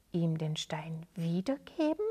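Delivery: whispered disbelief; astonished friend whispering back at Sali; stunned whisper. Acted. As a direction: barely breathe the question. Dalam stunned by the plan.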